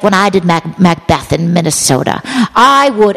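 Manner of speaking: mock-grand actorly boast; pompous thespian. Director telling her how he acted, mock pompous. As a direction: declaim like a self-important stage veteran.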